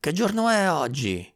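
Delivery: put-on high-pitched call to a boy in the street. A narrator's reading. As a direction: call the question out, stretched and high. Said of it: "gli urlò". (domanda gridata dalla finestra)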